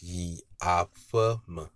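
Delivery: "yi afem" slowly, low, low, high, low; low-low-high-low tones. Shown as a demonstration. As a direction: draw out "yi afem", rising only before the final drop. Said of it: "Low intonation, low intonation, high intonation".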